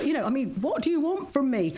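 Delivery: exasperated. Acted. Voice artist after endless retakes, mock exasperated.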